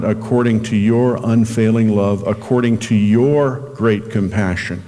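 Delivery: "your" leaned on in a slow scripture reading; stress on "your". Shown as a demonstration. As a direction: read it deliberately, weighting each "your". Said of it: "Emphasis on the word your".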